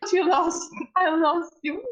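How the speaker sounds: high-pitched distressed scolding; upset, trembling character. Acted. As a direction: scold a friend who nearly died. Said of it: "she was like".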